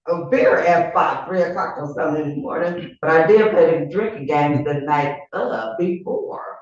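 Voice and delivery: loose, slurring delivery. Real, not acted. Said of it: "she is highly inebriated".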